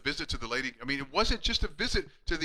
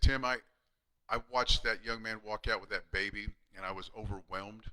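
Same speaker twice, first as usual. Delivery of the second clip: lower, softer, a touch of emotion; quietly voicing the moved old patient; moved retelling; 5 semitones lower, 3 dB quieter than usual. Old patient thanking his chiropractor, hushed and moved.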